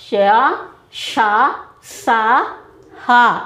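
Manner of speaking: "ష, ష, స, హ" each puffed out on the breath; breathy demo of "ష, ష, స, హ" as separate sounds; blown-out sibilants. Shown as a demonstration. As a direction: blow out each sound in "ష, ష, స, హ", with pauses between. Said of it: "ఊది పలుకుట అనేటువంటి అర్థంలో".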